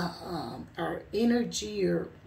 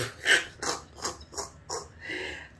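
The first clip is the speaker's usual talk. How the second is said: breathy voiceless burst of weeping; imitated weeping; 10 semitones higher than usual. Recalling how they would just weep, imitated sobbing. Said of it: "I would just weep".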